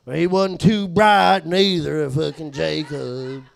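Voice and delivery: slow, slurred redneck voice; Jacob's redneck drawl. Retold or imitated. Comic mocking his dim coworker, slow redneck drawl. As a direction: drag it out like a redneck juggalo. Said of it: "like a shitty redneck juggalo".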